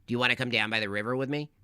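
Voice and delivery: lightly voiced sly cartoon fox luring; understated tempting fox; sneaky fox voice. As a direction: coax them down to the river, slyly. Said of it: "Why do you talk like that".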